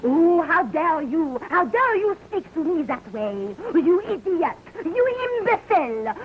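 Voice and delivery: indignant, building scolding; furious tirade. Acted. Actress berating her clumsy leading man, furious. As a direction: tear into him like a wounded diva.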